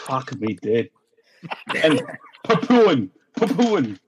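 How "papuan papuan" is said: Papuan said high, falling, each one separate; pointed pronunciation correction. Shown as a demonstration. Guest correcting the podcast hosts, pointed demonstration. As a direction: spell out Papuan by ear, pitched up. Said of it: "learn how to fucking pronounce it".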